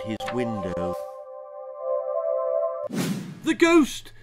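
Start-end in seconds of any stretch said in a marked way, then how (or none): 3.4-4.1 put-on very high, loud child's yell; excited yell. A narrator's reading. Child yelling a guess at grandma, excited yell. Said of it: "I yelled".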